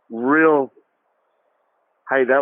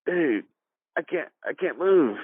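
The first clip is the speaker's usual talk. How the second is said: winded; 4 semitones higher, 3 dB quieter than usual. Retold or imitated. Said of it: "It knocked the wind out of me".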